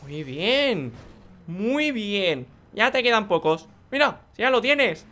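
high, loud coaching cheer; cheering encouragement. Acted. Gamer cheering along someone nearly done, loud encouragement.

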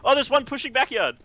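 urgent callout. Real, not acted.

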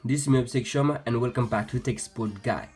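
friendly Indian English intro; upbeat Indian tech tutorial host; indian call center. Real, not acted. YouTube intro greeting, tech channel.

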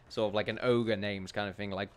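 ordinary talk, nothing marked

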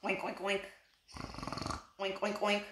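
soft, drowsy snoring oinks; sleepy oinks. A narrator's reading. Reader voicing pigs asleep, soft and drowsy. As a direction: oink softly like sleeping pigs. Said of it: "but they were sound asleep".

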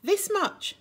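high, bright little-hare squeal; excited squeal. Acted. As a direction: stretch out wide and squeal it. Little hare shows his love.

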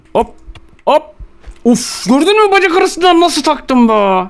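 high, excited crowing brag; excited boast. Real, not acted. Player bragging to his teammate after a goal, excited crow.

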